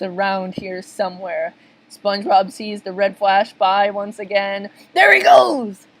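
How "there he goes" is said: high, loud sighting shout; excited, piercing alert; lookout's cry. Acted. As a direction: call out the sighting urgently. Lookout spots the red flash.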